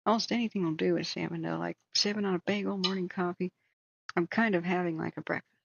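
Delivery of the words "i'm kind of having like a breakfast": talking while crunching food; chewing crunchy crackers mid-sentence; crunching chips. Real, not acted. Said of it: "you probably hear me crunching".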